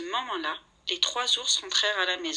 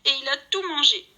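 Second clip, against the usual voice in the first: higher whiny little bear voice; Baby Bear's little voice; 6 semitones higher, 6 dB louder than usual. A narrator's reading. Baby Bear finds his porridge gone, whiny high voice. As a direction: whimper it like a small cub. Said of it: "gémit Bébé d'une petite voix".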